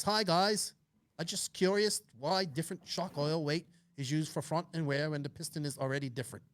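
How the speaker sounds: put-on a light, butchered Australian accent, reading the question; mock Aussie voice, only half done; bad Australian accent. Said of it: "I butchered the Australian accent".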